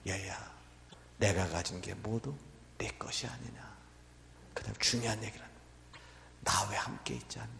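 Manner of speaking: soft, low, near-whispered comfort; tender father. Acted. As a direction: hold the son close and reassure him gently. Father embraces and comforts his son.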